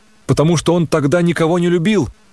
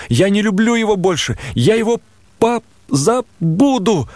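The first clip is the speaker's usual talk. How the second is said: put-on a lightly higher girl's voice, firm then faltering; hurt young woman; 4 semitones higher than usual. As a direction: push him away, then falter at the end. Nastenka refuses, breaking off.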